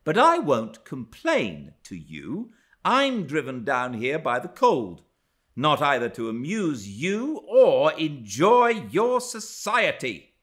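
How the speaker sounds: high, emphatic, haughty tirade; indignant scorn. A narrator's reading. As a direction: reject them all with open contempt. Frowning, scornful rejection of the household.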